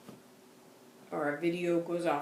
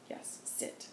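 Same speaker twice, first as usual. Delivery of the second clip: whisper; 13 dB quieter than usual. Retold or imitated.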